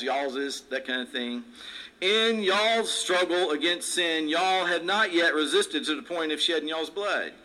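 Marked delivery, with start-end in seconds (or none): 2.0-7.3 southern accent. Shown as a demonstration. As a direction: read scripture with a raised southern lilt. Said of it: "say it with that southern accent".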